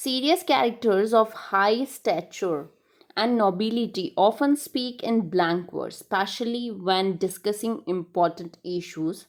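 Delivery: slow, measured read-aloud of the English text; slow reading of notes. Acted. Teacher reading English notes to her class, slow and measured. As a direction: read each phrase out slowly for students to note down.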